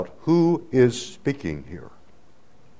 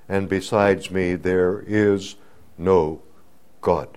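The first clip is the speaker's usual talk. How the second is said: prophetic reading; 4 dB louder than usual. Acted. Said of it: "Listen to it".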